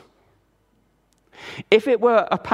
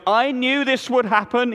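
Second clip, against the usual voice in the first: higher, whiny complaint; whinging Jonah; 8 semitones higher, 3 dB louder than usual. A narrator's reading. Jonah complaining to God, whinging. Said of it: "he whinged".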